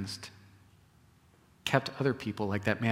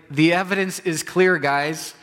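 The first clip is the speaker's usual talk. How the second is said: excited, loud, higher voice as the healed man; 5 semitones higher, 6 dB louder than usual. Retold or imitated. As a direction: play the healed man, eager and sure. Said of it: "He's like".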